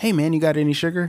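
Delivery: polite, sweet, high, friendly ordinary guy voice. Retelling a doorstep video on request, imitating a sweet, normal-sounding man. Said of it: "What was the voice again?".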